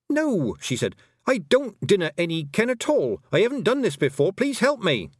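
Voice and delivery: put-on a girl out of her depth begging; anxious young girl pleading. Tiffany begs the Feegles for help, anxious and high.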